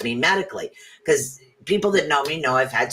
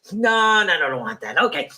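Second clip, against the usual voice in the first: voicing a dog; 4 semitones higher than usual. Playing a dog sniffing for a spot, picky higher voice. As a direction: talk like a fussy dog choosing a spot. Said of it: "a dog just walking around going".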